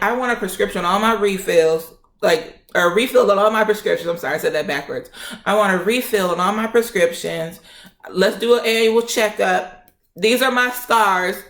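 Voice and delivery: pissed off. Retold or imitated. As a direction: rattle off demands as a fed-up patient. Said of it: "I'm pissed".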